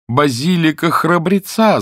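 high, slow narrated exclamation; crying out. A narrator's reading. Porter tries his answer on the woman, crying out. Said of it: "закричал носильщик".

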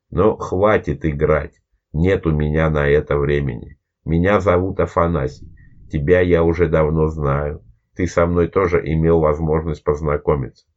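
low, faintly whistling sibilants; lightly whistle the s sounds; slightly whistling voice. Acted. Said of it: "Другим, несколько свистящим голосом".

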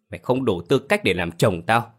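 shouted, mid strength; gào lớn. Acted. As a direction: yell at husband, building. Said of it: "Hồng gào lớn". (gào vào mặt chồng)

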